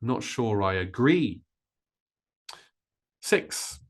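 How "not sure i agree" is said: "agree" punched on "gree" after short "Not sure I"; final-syllable stress. Shown as a demonstration. Teacher modelling stress for learners, weight on final "gree" of "agree". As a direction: hurry "Not sure I", land hard on the end of "agree". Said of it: "So stressing that final syllable".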